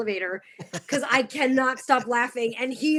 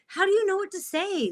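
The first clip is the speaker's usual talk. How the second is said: boss asking; 10 semitones higher than usual. Retold or imitated. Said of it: "he was like".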